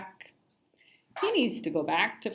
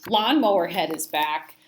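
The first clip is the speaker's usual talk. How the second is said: playground yell; 7 dB louder, slower than usual. A narrator's reading. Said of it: "someone yelled".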